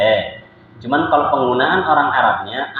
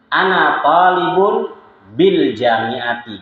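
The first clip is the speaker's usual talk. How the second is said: slowly and clearly, "Ana talibun bil jamiati" with each word set apart; careful teacher demo of "bil jamiati"; slow model phrase; 2 semitones higher, much slower than usual. Shown as a demonstration. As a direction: read it out slowly for the class to copy. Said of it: "ngomongnya memang begitu yang ma'ruf".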